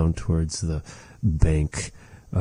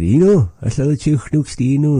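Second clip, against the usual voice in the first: quoted reply; 8 semitones higher, 4 dB louder, faster than usual. Retold or imitated. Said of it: "And I said".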